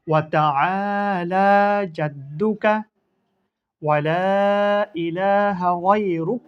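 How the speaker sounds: slow, measured chant of the prayer; slow prayer recitation. Shown as a demonstration. Teacher recites the Sana prayer to students, slow and chanted. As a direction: recite it gently, word by word, for pupils to follow. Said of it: "আবার বলা শিখি".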